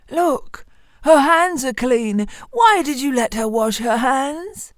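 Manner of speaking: bully the miller like a furious devil; angry devil. Acted. Devil scolds the miller again.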